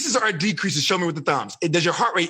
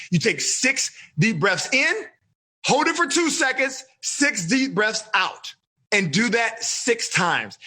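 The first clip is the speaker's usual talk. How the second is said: slow breathing instructions; slower than usual. Shown as a demonstration. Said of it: "the same breathing exercise I teach you".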